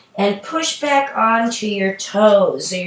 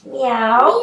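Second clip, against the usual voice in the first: a light, higher playful meow; cat meow; 4 semitones higher than usual. Shown as a demonstration. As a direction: meow like a kitty for the kids. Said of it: "Stretch like a cat".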